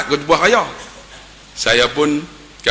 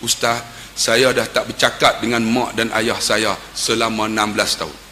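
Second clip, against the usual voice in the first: low, soft retold confession; hushed admission to the ustaz; subdued confession; 6 semitones lower, 5 dB quieter than usual. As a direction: confide it quietly, voice lowered. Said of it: "dia teriak".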